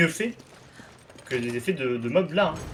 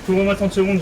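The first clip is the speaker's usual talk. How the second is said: loud, urgent call for cover; cover me shout; 5 semitones higher, 5 dB louder than usual. Real, not acted. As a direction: shout it under pressure. Co-op game, enemy attacking.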